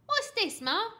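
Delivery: put-on loud, high demanding boy; suspicious child's demand. A narrator's reading. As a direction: demand an answer like a bratty kid. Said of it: "Frankie demanded".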